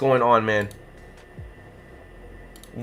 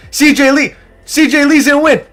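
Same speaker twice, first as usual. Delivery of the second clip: very high, slow, stretched-out cheer; drawn-out cheer; 12 semitones higher, 5 dB louder, much slower than usual. Real, not acted. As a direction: call it like a victory already won. Cheering on a duck.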